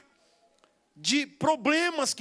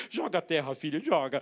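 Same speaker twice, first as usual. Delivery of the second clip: touched, teary dad; 6 semitones lower than usual. Retold or imitated. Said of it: "eu emocionado também".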